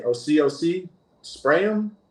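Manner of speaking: urgent shout. Retold or imitated. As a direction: call it out high and urgent. Retold ordering spray in panic.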